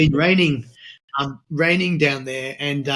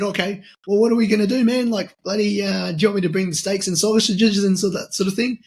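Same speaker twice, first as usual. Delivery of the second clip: excited; 6 semitones higher than usual. Retold or imitated. Eager asking about steaks.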